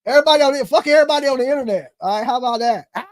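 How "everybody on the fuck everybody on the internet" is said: fast, louder mock rant; imagined broke dasher ranting fast. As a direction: rattle it off in a hammed-up huff. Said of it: "I'd be like".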